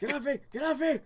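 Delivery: high, loud cartoon yell; cartoon scream. Ren cartoon voice yelling.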